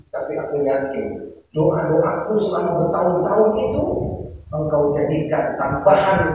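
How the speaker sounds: quiet sincere surrender; humble prayer. Shown as a demonstration. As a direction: pray the right way, calm and trusting. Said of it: "Kalau yang taklim gimana?".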